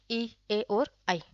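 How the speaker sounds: ई, ए और आई drawn out slowly, lips barely moving; each vowel ई, ए, आई held long for the class; slow vowel demo. Shown as a demonstration. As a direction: spell out ई, ए और आई slowly with lips almost still. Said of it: "इसके होंठ हिल भी रहे कि नहीं".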